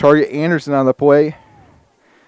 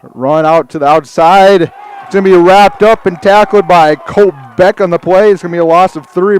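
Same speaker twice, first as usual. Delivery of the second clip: excited play-by-play; 3 semitones higher, 4 dB louder than usual. Real, not acted. Announcer calls the Colt Beck tackle to listeners, excited play-by-play. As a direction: call the tackle with rising energy.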